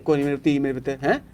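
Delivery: gently soothing; tender consoling. Real, not acted. Consoling a suffering disabled girl.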